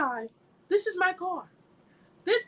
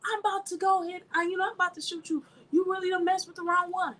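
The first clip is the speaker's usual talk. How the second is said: mock threat; 4 semitones higher than usual. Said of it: "If I was waving a gun".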